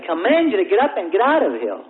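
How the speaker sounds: acted-out firm dismissal; stern command. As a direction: order it out with authority. Minister acted out commanding demon.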